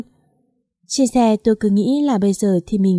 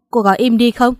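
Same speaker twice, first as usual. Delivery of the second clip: a touch louder, sharp rebuke; snapping at his sister; 3 dB louder than usual. Acted. Father rebuking the aunt at the hospital, sharp. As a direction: cut her off firmly, a mild shout. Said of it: "Bố tôi quát".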